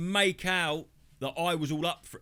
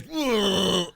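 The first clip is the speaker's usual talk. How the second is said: a louder, higher imitated "whoa"; mock startled whoa; 4 semitones higher, 7 dB louder than usual. The man at the dogging site, startled, a loud mock whoa. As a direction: blurt it out like a man caught off guard. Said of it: "like that".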